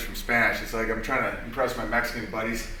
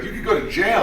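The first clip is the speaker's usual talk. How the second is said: warning voice; 8 semitones higher than usual. Retold or imitated. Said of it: "someone's like".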